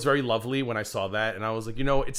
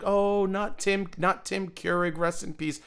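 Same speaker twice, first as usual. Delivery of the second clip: slow, drawn-out fake grief from the mocking chat; imitating the chat's mournful sigh, dragged out slowly; 6 semitones higher, slower than usual. Chat mourning the wrong Tim in slow mock grief. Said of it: "they all were like".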